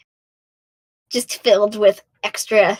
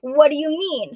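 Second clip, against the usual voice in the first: high excited scream at the trailer; 4 semitones higher than usual. Retold or imitated. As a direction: shout it out in shock. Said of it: "I screamed that at the top of my lungs".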